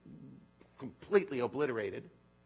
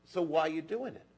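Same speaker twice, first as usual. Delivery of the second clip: put-on Texan accent; 4 semitones higher, 5 dB louder than usual. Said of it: "I can't get the accent right".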